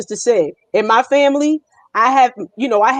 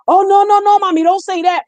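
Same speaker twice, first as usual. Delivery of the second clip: higher, louder mock panic; flustered pleading; 7 semitones higher, 5 dB louder than usual. Clerk begging the customer not to translate, in mock panic. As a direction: beg her not to translate, hammed-up.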